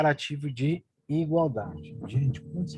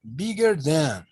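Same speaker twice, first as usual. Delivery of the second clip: slow, stretched out and a touch louder; slow emphasis; 4 dB louder, much slower than usual. Shown as a demonstration. Teacher pointing out the bold words to students, slow and stretched. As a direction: drag the words out so they sink in.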